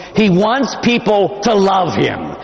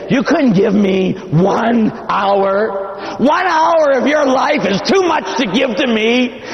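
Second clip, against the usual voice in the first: hurt rebuke; 7 semitones higher, slower than usual. Retold or imitated. Jesus rebuking sleeping apostles.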